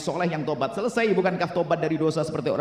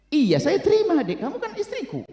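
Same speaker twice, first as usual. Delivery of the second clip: doting husband; 11 semitones higher than usual. Acted. Husband accepting wife, laughing.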